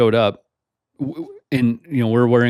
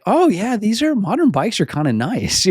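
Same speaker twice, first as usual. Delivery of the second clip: mock friend voice; 8 semitones higher than usual. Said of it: "He's like".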